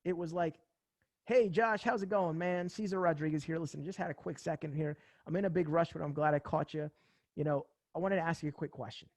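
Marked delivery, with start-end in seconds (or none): 1.2-9.1 smooth conversational. Retold or imitated. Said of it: "conversational. It was smooth. It had swagger".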